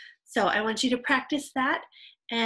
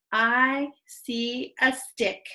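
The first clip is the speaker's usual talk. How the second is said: slow, drawn-out beginner reading aloud; careful, stretched read-aloud; slow model reading; 3 dB louder, much slower than usual. Shown as a demonstration. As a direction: read word by word for new readers.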